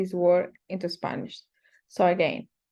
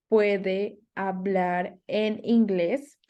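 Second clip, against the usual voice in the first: spoken slowly, word by word. Shown as a demonstration. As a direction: say it slowly so learners can follow. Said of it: "So the question is".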